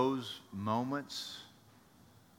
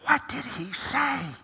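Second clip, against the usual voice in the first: puzzled disciple; 10 semitones higher, 7 dB louder than usual. Acted. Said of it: "James leans into John and goes".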